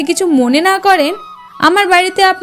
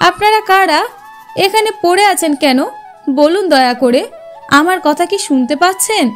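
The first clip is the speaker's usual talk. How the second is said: higher-pitched, anxious-to-be-heard questioning; calling out to rouse; 3 semitones higher than usual. Acted. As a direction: call to strangers who lie unresponsive. Calling to rouse people lying collapsed.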